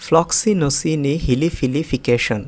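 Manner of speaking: ফ্লক্সিনোসিনি হিলিফিলিফিকেশন drawn out slowly, piece by piece; slow, broken up. Shown as a demonstration. Teacher breaking ফ্লক্সিনোসিনি হিলিফিলিফিকেশন down for learners. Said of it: "একটু ভেঙে ভেঙে উচ্চারণ করি".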